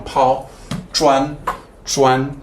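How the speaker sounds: "Paul", "Zhuan" each held high and level; Mandarin first tone. Shown as a demonstration. Teacher demoing flat tones of "Paul" and "Zhuan". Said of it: "first tone, flat tone".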